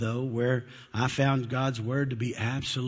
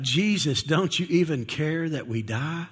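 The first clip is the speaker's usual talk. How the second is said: mild, raised-pitch desperate plea; crying out; 4 semitones higher than usual. Acted. Disciples cry out to Jesus in the storm, mildly desperate. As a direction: call out to Jesus with a touch of panic. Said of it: "they cried out".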